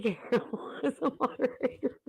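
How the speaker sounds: guilty laughing whisper; sheepish whispered confession. Real, not acted. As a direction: own up under your breath. Sheepish confession after removing moderator.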